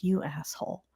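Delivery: quiet retold insult. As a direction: slip the insult out softly. First take of retold insult.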